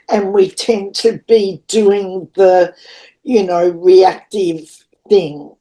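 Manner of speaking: slow, drawn-out musing phrases; slow dreamy talk. Real, not acted. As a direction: let the words come slowly as if channeling. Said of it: "Why am I talking like this?".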